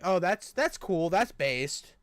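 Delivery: mocking someone who cheers the killing; mock approval. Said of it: "look at that and be like".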